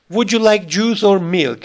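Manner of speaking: "juice" rising, "milk" falling; rise then fall. Shown as a demonstration. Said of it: "a rise on the first part, ... and the fall on the second part".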